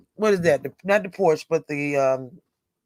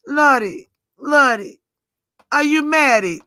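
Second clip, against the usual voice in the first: mock French-sounding accent; 9 semitones higher than usual. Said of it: "I sound like he's French".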